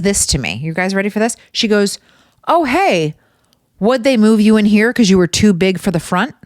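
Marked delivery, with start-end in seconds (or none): 2.5-6.3 high-pitched, chirpy tactless question; raised pitch, breezily nosy; mock cheery coworker. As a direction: imitate an oblivious, perky coworker. Acting out tactless coworker's greeting.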